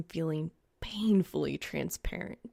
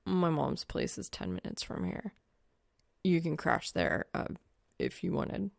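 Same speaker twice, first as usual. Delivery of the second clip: low guy voice; 3 semitones lower, 3 dB quieter than usual. Acted. Soul's low shy offer.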